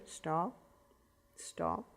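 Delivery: put-on soft, calm "Stop, stop" to a crying baby; gentle hushed stop. Shown as a demonstration. Parent going in to a crying baby, soft and calm. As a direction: quietly settle the baby with two soft stops. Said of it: "You go in".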